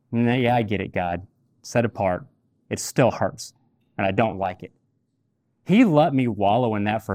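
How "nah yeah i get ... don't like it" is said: grumbling. Retold or imitated. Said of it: "I continued my grumbling".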